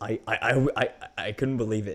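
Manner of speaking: stammering over the first word, repeating "I". Speaker left speechless by a YouTuber's comeback, stuttering. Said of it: "even I'm stuttering right now".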